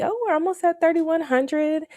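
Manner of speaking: high, bright delighted surprise; thrilled to see the balance climb; excited. Real, not acted.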